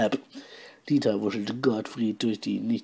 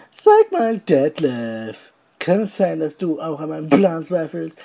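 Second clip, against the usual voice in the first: confronting; 5 semitones higher, 5 dB louder than usual. Acted. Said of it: "Dieter intervenierte".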